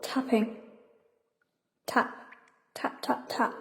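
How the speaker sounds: hushed whisper. Acted. Girl in a dark cave whispers the tapping she hears, hushed. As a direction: whisper each tap softly, barely voiced.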